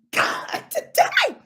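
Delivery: exasperated exclamation. Real, not acted. Exclamation "God, today.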